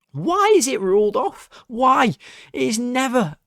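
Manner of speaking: high, exasperated protest; indignant, voice pitched right up; fuming. Real, not acted. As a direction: demand answers in high-pitched outrage. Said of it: "I was fuming at him".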